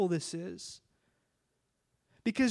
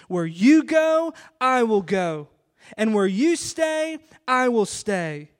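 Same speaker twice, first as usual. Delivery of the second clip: impassioned pledge; 6 dB louder than usual. Retold or imitated. Ruth's pledge, preached with force.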